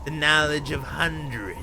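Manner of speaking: portentous storyteller. Acted. Character tells of the orb's knowledge.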